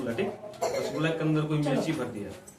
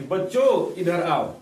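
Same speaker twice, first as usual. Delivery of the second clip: lightly raised calling voice, falling at the end; 5 dB louder, slower than usual. Retold or imitated. Man summoning four children at play, calling out. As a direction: call the children over, a bit louder. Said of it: "वो इनको आवाज देता है".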